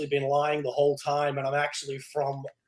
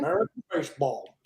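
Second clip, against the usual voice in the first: mock American, as if chewing tobacco; American accent; 3 semitones higher than usual. Shown as a demonstration. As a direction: say "American baseball" round a chaw, American-style. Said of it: "need to be chewing tobacco to say that".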